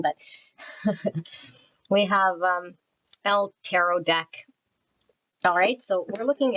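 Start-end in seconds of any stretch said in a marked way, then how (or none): 0.6-1.3 quiet amused chuckle; a brief, soft laugh she can't explain. Real, not acted. Reader laughs softly while starting the pile. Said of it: "So I'm laughing 'cause".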